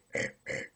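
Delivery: throat burp sound; short burped grunt; burp noise. Shown as a demonstration. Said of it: "if you're doing it right".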